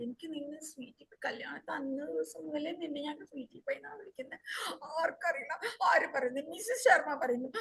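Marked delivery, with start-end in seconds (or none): 0.1-4.4 hushed comforting. Acted. Husband consoles crying wife.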